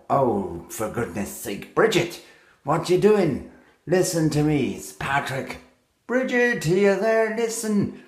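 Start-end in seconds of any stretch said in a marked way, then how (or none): 1.7-8.0 high distant ghostly calling; calling from far away. Acted. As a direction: call across a great distance. Calling to Bridget again.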